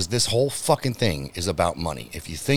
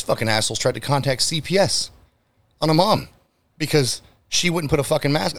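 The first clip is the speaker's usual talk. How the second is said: outraged; 6 semitones higher than usual. Real, not acted. Outrage at CPS threat.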